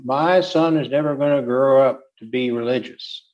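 a hint of a Southern accent, quoting dad. Father vowing his son won't be religious, in mild Southern accent. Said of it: "why I did that in a Southern accent".

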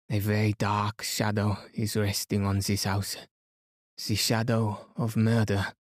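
lightly voiced French-accented detective, grave; a measured warning with a light French accent; Poirot. Poirot warning of a shadow of murder, gravely accented.

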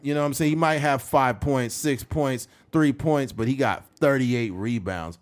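ordinary talk

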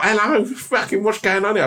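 high, bewildered hello; baffled greeting. Retold or imitated. Astronaut meeting talking fruit, high and bewildered. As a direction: sound completely thrown. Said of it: "And you're like".

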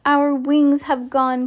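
high, drawn-out cry of discovery; exclaiming cry. A narrator's reading. Mister Gregg finding himself restored, exclaiming cry. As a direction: cry out slowly, pitch held high. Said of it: "cried Mister Gregg".

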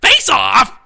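Nicolas Cage impression. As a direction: blurt it out like Nic Cage. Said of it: "Nicolas Cage".

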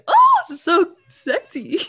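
high, slow, laughing mock swoon. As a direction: exaggerate being turned on, through laughter. Mock swoon over a film scene.

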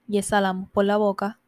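slow affirmations with long pauses; measured meditation guide, unhurried; guided meditation. Acted. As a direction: lead a breathing exercise, leaving space after each phrase. Leads breathing and affirmations.

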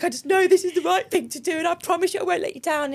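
imitating high, tearful, overwhelmed pleading; laughing and crying. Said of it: "laughing and crying at the same time".

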